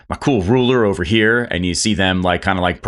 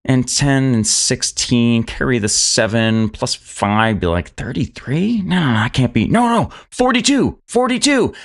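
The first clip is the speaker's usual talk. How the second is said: high, muttering dwarf doing sums; fussy dwarf quartermaster muttering sums; 5 semitones higher than usual. Acted. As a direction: mumble the numbers, then jump up high at forty-two. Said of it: "muttering things at first".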